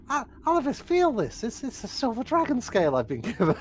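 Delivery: high, loud, laughing marvel; delighted wonder. Acted. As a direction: marvel at the gift with a giddy laugh. In-character marvelling at the scale.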